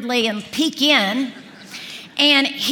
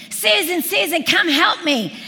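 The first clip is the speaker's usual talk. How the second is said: calling her name higher, urgent; mock yell from kitchen; 4 semitones higher than usual. Husband calling wife from the kitchen, mild mock yell. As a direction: shout for help from the kitchen. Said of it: "Marty is yelling from me from the kitchen".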